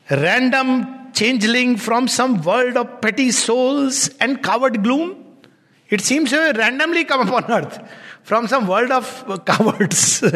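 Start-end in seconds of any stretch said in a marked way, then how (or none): 0.1-5.1 measured recitation of epic verse; solemn poem recital; poem reading. Acted. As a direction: read it like an old ballad.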